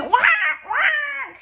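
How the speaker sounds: very high, loud quacks; mother duck shrieking at the crowd; shouted quacking. A narrator's reading. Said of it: "she said".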